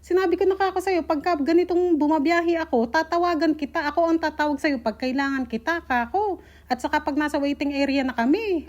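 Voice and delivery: mother scolding husband over the phone, exasperated; irritated retold scolding. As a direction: lay down the law, fed up with his calls. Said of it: "inis na inis talaga ako".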